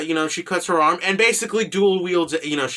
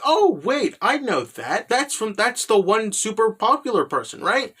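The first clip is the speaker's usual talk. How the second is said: high, excited recognition; lightly voiced gasp of realizing; surprised recognition; 5 semitones higher than usual. Nasa spots the face on the bill, recognizing it with surprise. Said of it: "comes in and is like".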